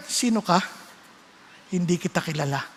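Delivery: low, soft, distant rejection; cold dismissal. Pretend. God telling a stranger he doesn't know them, low and cold. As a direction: turn them away quietly.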